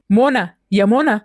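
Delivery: drawn-out, slow call for the wife; annoyed calling out. Acted. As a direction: call her from another room, impatiently. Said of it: "مالك بتزعق كده ليه؟".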